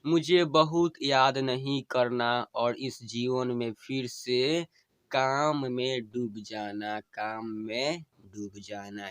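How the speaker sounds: slow, tender recital of a dying wife's plea; dying wife's farewell. Acted. Wife bidding her husband farewell, tender and pleading.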